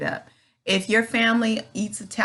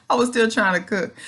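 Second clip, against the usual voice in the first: laughing through the repeat, a bit louder; 3 semitones higher, 4 dB louder than usual. Real, not acted. To viewers about cooking bedridden, amused laughing repeat. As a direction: laugh at yourself as you say it again.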